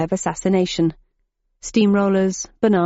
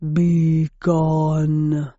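threatening; 3 semitones lower than usual. A narrator's reading. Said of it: "breathed a threatening".

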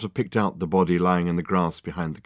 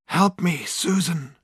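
high, wailing plea for help; desperate cry; 8 semitones higher, slower than usual. A narrator's reading. Ghost clinging to the phone for comfort, desperate cry. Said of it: "he cried again".

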